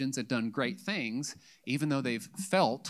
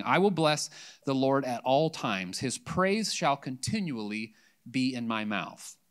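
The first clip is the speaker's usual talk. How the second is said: scripture reading. Acted. Pastor reading Psalm 34 to the congregation: measured scripture reading. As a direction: read it aloud with weight to the church.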